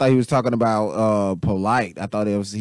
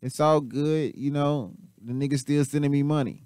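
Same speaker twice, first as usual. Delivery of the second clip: higher, mock-smug voice of the guy getting paid; imitating Polite; 7 semitones higher than usual. Reactor voices Polite being sent money, higher mock voice. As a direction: play Polite chuckling that he still gets money. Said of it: "He was like".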